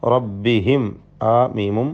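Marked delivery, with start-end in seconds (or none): 0.0-0.8 റബ്ബിഹിം ending on a plain m; clear unhummed meem. Shown as a demonstration. Teacher shows students clear meem, റബ്ബിഹിം without hum. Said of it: "ഇൽഹാർ ഷഫവി മണിക്കാൻ പാടില്ല".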